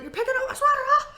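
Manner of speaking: high, clingy dog voice; high needy puppy voice; pet voice. Pretend. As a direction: whine like a pet wanting attention. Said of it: "you're like".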